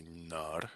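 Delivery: "nar" with an ah in place of O; open, reduced vowel in "nar". Shown as a demonstration. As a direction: say "nar", not nor. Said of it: "sounds much more correct in Russian to say".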